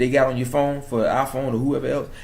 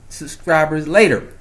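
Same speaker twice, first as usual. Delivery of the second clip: ordinary talk, nothing marked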